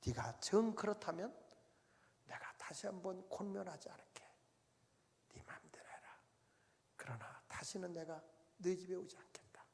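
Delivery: hushed, half-whispered tearful words; mother leaving her daughter's house in tears; tearful farewell. Retold or imitated. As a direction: speak through held-back tears, very soft. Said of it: "엄마가 눈물을 흘리면서".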